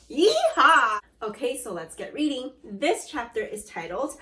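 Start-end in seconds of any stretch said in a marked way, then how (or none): 0.1-1.0 cheer. Acted. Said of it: "cheer after go".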